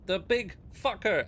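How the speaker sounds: high, loud urgent exclamation; alarmed halfling. Acted. Hidden halfling points at the monolith, alarmed and loud. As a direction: blurt out the warning high and loud.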